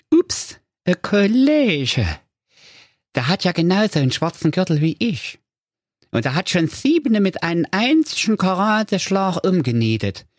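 high, anxious cartoon ninja; comic ninja voice. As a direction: mutter worried thoughts, high pitched. Ninja thinks to himself.

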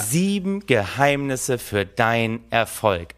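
slow, weighty guru announcement dropping low at the end; mock-solemn reveal. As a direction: draw it out like a grand secret. Feierliche Enthüllung eines Gurus. (bedeutungsschwer, langsam verkündet)

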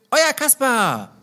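langsam, feierlich gedehnt; Kasper-Abschied. Acted. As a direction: sag es wie eine lustige Unterschrift. Signing off in character. (langsamer, gedehnter Kasper-Gruß)

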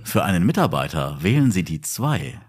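slow, even automated announcement; phone menu voice. Shown as a demonstration. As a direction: read it like a hotline menu. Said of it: "dreizehn Telefonansagen sprechen".

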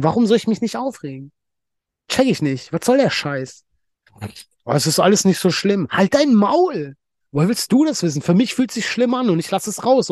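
really getting worked up about it; fired-up venting in rising anger; worked-up rant. Real, not acted. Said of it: "jetzt hab ich mich aber nochmal in Rage geredet".

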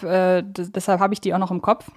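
normal talking voice

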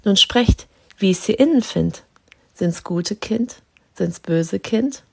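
measured recitation of a Christmas poem. Acted. Host reciting Storm for listeners, verse recitation. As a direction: read it like a classic verse.

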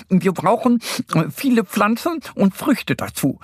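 high, bouncy hare voice; Easter Bunny. A narrator's reading. Easter Bunny telling friends what is needed, lively. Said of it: "sagt der Osterhase".

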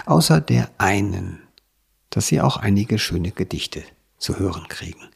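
measured presenter read with deliberate pauses; scripted podcast introduction. Real, not acted. Host introduces a poetry anthology to listeners, presenter read. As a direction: present the book phrase by phrase.

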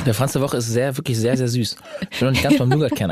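talking with a mouthful of pastry; mouth full. Real, not acted. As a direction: chew and talk at once. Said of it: "nicht so mit vollem Mund die ganze Zeit quatschen".

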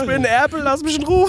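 high, loud squawking drake; duck voice. Pretend. Voicing the squeezed duck.

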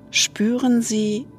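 ordinary talk, nothing marked

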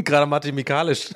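slow, breaking into a laugh. Real, not acted. Podcaster tangles his own sentence and cracks up laughing. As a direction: stumble into it, cracking up.

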